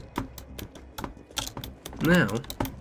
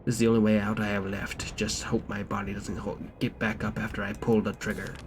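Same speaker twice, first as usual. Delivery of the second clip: pirate voice. Acted. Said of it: "Probably should not have read that in a pirate voice".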